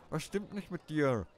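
high, slow mock Indian accent, stress on dir; clumsy Indian accent thrown at the mirror; bad Indian accent. Raj asks his mirror in a clumsy Indian accent. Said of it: "Ich kann keinen indischen Akzent nachmachen".

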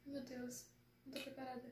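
hushed, barely voiced; nervous whisper. Real, not acted. Fan before the premiere, whispering she isn't ready. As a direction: breathe it out, tense.

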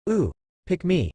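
put-on high, excited childlike yell; eager yell. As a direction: shout like a kid begging to be picked.

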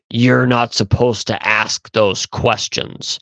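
slow, lightly voiced demon; a hint of demonic menace, drawn out. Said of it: "in a demonic, guttural voice".

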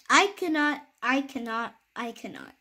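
put-on a tired old engine giving up; weary refusal. Rusty old engine turns the toys down, fading wearily. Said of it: "engine sighed".

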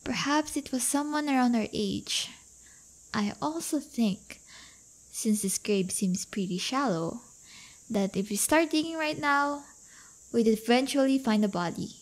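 hushed, creepy graveyard hints, partly whispered; spooky whisper. Pretend. To her prom date in the woods, mock-spooky hush. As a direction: tease her date with a fake ghost story, spooky whisper. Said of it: "I was just trying to scare you".

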